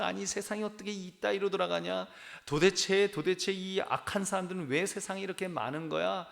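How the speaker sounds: a sermon's mock rage at the world; retold angry outburst. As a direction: play back your own fury at the news. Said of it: "막 화가 나는 겁니다".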